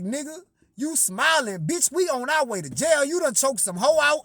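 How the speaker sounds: hammed-up disbelief at his friend; exasperated. Scolding smiling friend.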